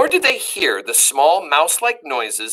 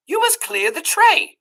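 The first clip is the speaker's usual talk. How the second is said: cook shouting. Acted. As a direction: bark the order at Meg. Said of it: "shouted the cook".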